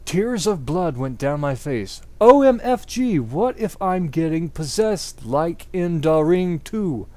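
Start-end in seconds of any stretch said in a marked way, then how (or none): 2.2-7.1 mock panic. Narrator panicking over vision.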